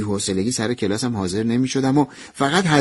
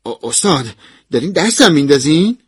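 firm question that climbs in pitch; firm challenge; 3 semitones higher, 5 dB louder than usual. Acted. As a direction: confront the professor, suspecting mockery. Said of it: "با قاطعیت گفتم".

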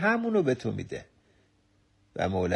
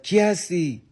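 raised, pitched-up call of "کی هستی؟"; curious shout; 7 semitones higher, 3 dB louder than usual. Retold or imitated. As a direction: call out across the mountain, curious. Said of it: "با کنجکاوی فریاد زد". (فریاد کنجکاو «کی هستی؟»)

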